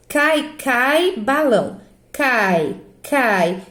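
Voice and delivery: CAI, CAI said as one gliding syllable each. Shown as a demonstration. Teacher showing pupils it cannot be split, one-syllable cai. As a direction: keep each "cai" whole, a single diphthong. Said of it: "eu pronuncio cai".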